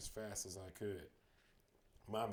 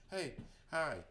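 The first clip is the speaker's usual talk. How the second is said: calling out, out of breath; breathless call; 7 semitones higher, 5 dB louder than usual. Acted. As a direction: call hi while panting.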